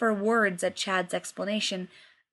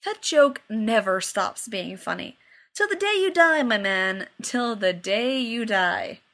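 fond condescension; slower than usual. Acted. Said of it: "with fond condescension".

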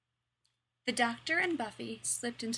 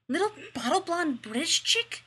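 catty jab; 7 semitones higher, 7 dB louder than usual. A narrator's reading. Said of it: "hissed Cordelia".

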